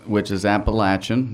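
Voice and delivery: "Appalachian" said the local way, with a short a in the third syllable, "Appa-LATCH-un"; Appalachian pronunciation. Shown as a demonstration. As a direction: give "Appalachian" its mountain sound, "Appa-LATCH-un". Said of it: "That's how you say that word".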